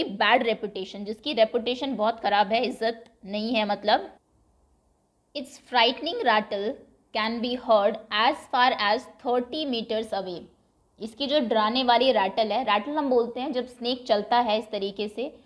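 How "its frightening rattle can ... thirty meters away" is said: reads the English sentence out slowly and evenly; measured read-aloud pace for learners. Shown as a demonstration. Teacher reading the English text to students, slow and deliberate.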